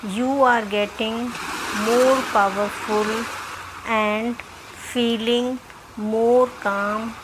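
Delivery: measured meditation voice with long pauses; guided meditation. Acted. Doctor leading listeners through self-healing meditation, measured guiding voice. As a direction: guide them in short, spaced-out phrases.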